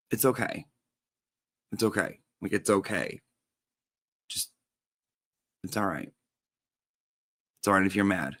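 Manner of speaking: soft, gentle reassurance; calm him like you're soothing someone upset; reassuring. Retold or imitated. Comforting upset boyfriend.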